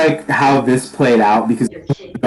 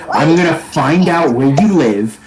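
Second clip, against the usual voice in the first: furious threat; 2 semitones higher than usual. Acted. Shanks threatens the archer who shot him, furious. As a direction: stretch out the threat of revenge. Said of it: "looking at you with a fury".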